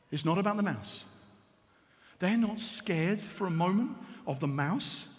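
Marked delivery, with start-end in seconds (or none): 0.1-1.1 low, softened statement; quiet key point. Real, not acted. Preacher giving congregation the lesson, quiet and low. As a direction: drop the voice and let it land.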